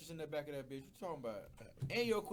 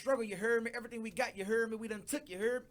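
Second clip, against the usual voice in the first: New Orleans catchphrase tagged on, louder; mock New Orleans talk; 3 semitones higher, 5 dB louder than usual. Mocking how New Orleans guys talk, in a New Orleans lilt. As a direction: parody the New Orleans cadence. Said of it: "every other third word was".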